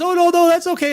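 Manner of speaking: high, loud Shatner-style reassurance. Retold or imitated. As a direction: play Shatner brushing it off. Host quotes Shatner meeting.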